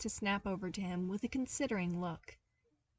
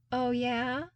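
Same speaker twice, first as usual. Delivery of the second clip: challenging; 5 semitones higher, 5 dB louder than usual. A narrator's reading. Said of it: "he challenged".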